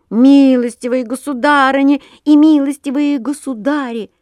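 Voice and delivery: high, loud call over the noise; shouting over everyone. Acted. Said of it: "старался перекричать всех".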